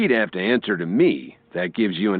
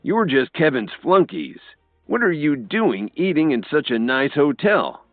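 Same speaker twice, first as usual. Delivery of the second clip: angry uncle; 7 semitones higher than usual. A narrator's reading. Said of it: "Thomas Williams growled".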